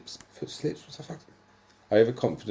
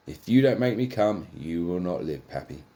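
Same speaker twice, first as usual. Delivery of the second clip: yell; 3 dB louder than usual. Acted. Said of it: "Pepper yells".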